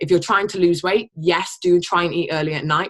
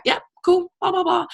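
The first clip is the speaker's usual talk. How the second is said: breezy brush-off; 13 semitones higher than usual. Retold or imitated. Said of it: "And I was like".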